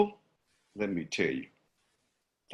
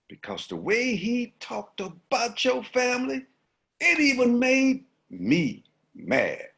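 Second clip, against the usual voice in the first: higher, teasing monkey voice; monkey feigning outrage; sly monkey; 5 semitones higher than usual. Acted. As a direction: stir up trouble with mock sympathy. Monkey egging on the lion.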